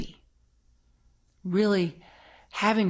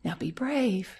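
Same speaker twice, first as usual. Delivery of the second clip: reassuring mom. Retold or imitated. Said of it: "she'll say".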